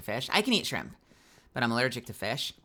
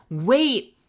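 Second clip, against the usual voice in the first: surprised; 8 semitones higher, 8 dB louder than usual. Real, not acted. Sudden realisation.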